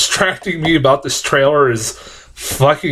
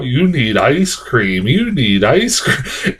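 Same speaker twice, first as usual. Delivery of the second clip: robot; much slower than usual. Retold or imitated. Reviewer retelling the creepy ad's robot, slow mock robot. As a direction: drone it out like a pushy machine. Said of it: "a robot comes up to her and says".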